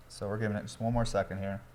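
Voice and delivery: sipping through a straw between words; slurping a drink. Real, not acted. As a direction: talk right after a slurping sip. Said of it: "Sorry, I'm slurping in the mic".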